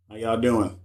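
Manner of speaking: "How y'all doing?" through an app voice filter; the greeting warped by a filter. Real, not acted. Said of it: "So I got a filter on?".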